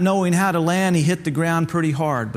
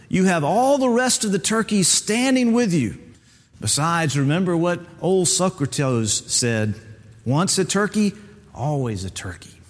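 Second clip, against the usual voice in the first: a hint of a stern, higher mentor voice; lightly voiced turkey mentor; 3 semitones higher than usual. Mentor tells Bubba hard truths, lightly voiced stern teacher. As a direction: gently lecture the young bird.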